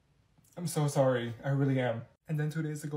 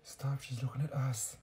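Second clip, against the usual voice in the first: hushed; 5 semitones lower, 11 dB quieter than usual. Acted. Hushing friend, being watched.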